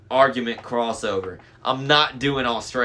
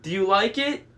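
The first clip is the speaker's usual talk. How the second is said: high, coy falsetto; high fake bride voice; 9 semitones higher, 3 dB louder than usual. A narrator's reading. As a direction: fish for approval in falsetto. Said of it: "in his falsetto voice".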